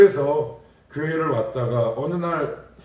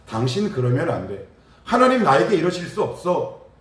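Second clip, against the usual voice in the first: mock protest; 5 semitones higher, 4 dB louder than usual. Mocking a complaining believer's protest.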